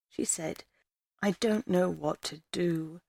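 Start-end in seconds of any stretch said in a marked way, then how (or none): 1.2-3.0 softer, teary repeat of the same words; quietly crying. A narrator's reading. Lost girl repeating herself to the stranger, softly crying. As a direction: let it fall apart into quiet tears. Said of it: "She was crying again".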